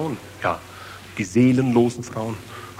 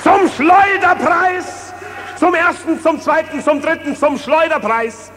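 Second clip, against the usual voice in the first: auctioneer; 10 semitones higher than usual. Acted. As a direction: sell it off like a market crier. Auctioning off the Vatican.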